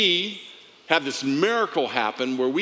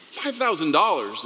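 pitched up in mock disbelief; surprised echo; 4 semitones higher than usual. Pastor echoing the quoted price, surprised. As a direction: echo the price back, amazed it's so little.

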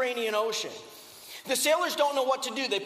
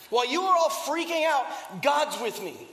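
raised voice; 3 semitones higher than usual. Retold or imitated. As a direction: push it out over the crew. Paul boasts to panicked crew.

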